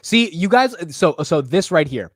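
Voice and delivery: usual speaking voice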